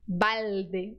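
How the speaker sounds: balde, tongue on a real L; balde with a clear L. Shown as a demonstration. Teacher contrasting balde with a real L. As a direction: say balde with the L fully sounded, not baude. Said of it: "a gente transforma em U".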